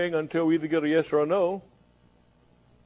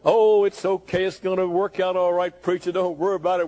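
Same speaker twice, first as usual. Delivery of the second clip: mock reassurance. Voicing a complacent churchgoer answering preacher.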